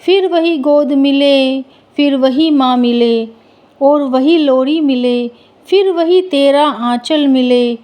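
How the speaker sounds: measured, evenly pitched verse recitation; poem recitation. Acted. Devotional verse to mother before the story, poem recitation. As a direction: recite it line by line, with brief pauses between phrases.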